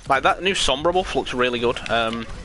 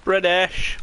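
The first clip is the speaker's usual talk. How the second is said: mock British accent, a little higher; exaggerated British accent; 5 semitones higher than usual. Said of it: "British people be like".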